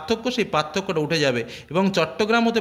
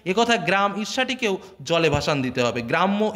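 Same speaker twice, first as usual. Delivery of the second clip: reading the text aloud; 3 semitones higher than usual. Acted. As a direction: recite the essay's words to the class. Reads quoted essay text aloud.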